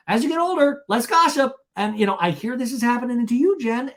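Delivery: high-pitched, pushy impression; hammed-up chirp at a high pitch; Vicky. Vicky commiserating with Jen about gossip, high mock concern. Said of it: "And Vicky goes".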